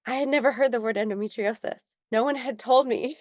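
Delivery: holding back real tears while telling it; real upset. Real, not acted. Guest telling host of her unheard-of diagnosis, upset. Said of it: "I'm getting, like, so upset about this".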